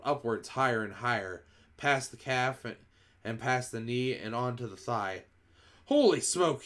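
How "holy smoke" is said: high, loud startled yell. A narrator's reading. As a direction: blurt it out in alarm. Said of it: "the man was yelling".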